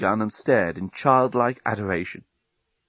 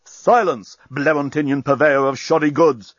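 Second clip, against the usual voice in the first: higher, louder commanding shout; 3 semitones higher, 5 dB louder than usual. Acted. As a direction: bark the order at him. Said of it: "shouted Bolfas".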